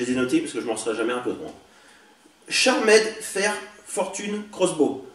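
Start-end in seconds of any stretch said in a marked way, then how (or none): 2.5-5.1 English name slowly sounded out in a French accent; bad English accent. Real, not acted. Vlogger reading a toy's English name, bad English accent. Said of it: "Avec mon accent anglais tout pourri".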